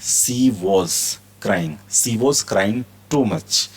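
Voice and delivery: each word stretched out; very slow model reading. Shown as a demonstration. Teacher reads the example very slowly to students. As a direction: drag it out for learners to copy. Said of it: "teacher models example sentence".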